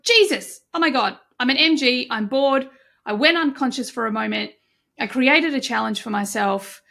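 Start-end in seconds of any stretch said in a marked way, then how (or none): 0.0-2.7 exasperated outburst. Retold or imitated. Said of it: "And I'm like".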